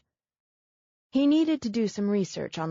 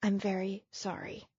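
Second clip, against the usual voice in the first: much softer, subdued apology; quiet apology; 6 dB quieter than usual. Acted. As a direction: say it small and contrite. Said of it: "she repeated".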